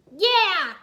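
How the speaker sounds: high, loud cheer. Acted. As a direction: cheer the win. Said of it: "Jay cheered".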